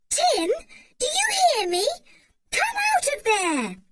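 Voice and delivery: high, loud call across the heath; George shouting. A narrator's reading. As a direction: yell for the dog to come back. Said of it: "shouted George".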